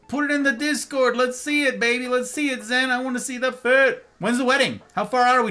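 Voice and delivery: high, loud and eager, begging to see the outfit; excited hype. Real, not acted. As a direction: cheer the chat on to post the pics. Chat asks to see suit.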